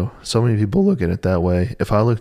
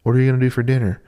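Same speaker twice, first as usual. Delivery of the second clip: raised voice, imitating a back-and-forth; high mocking voice; 5 semitones higher, faster than usual. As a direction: act out both sides higher. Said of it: "I'm like".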